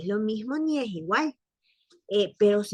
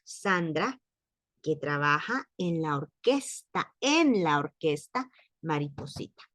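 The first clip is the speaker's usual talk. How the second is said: slow example sentence. Shown as a demonstration. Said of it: "A decir".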